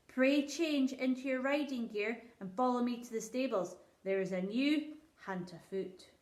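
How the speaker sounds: a king asking kindly but distracted; lightly voiced king. King addresses the lords.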